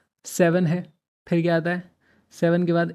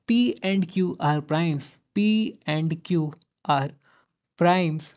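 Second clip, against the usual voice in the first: slow emphatic; much slower than usual. Shown as a demonstration. Spells out key condition.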